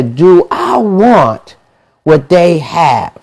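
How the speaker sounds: slow, drawn-out self-question; slow pondering. Shown as a demonstration. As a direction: weigh each word as you ask yourself. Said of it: "you look at 'em and say".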